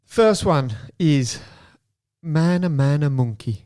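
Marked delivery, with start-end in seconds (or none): 2.2-3.6 put-on said in a Geordie accent; light Geordie lilt on the words. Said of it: "I did it in a Geordie accent".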